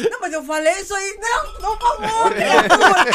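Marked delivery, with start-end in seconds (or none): 1.2-3.0 raised exasperated retort, louder; a half-mocking exasperated comeback. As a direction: throw it back at him, fed up. Retold argument retort.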